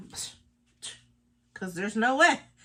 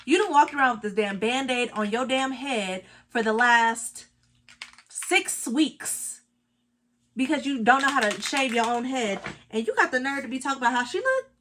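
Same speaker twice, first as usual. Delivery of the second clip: loud, indignant call-out at Mitch; mock telling-off; 4 dB louder than usual. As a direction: scold him, half joking. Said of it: "you would be like".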